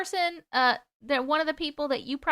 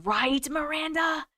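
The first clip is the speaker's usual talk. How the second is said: drawn-out, higher-ending question; emphatic agreement; 3 semitones higher, slower than usual. Real, not acted. Streamer agrees with viewer about scary video, emphatic. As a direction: stretch it out in eager agreement.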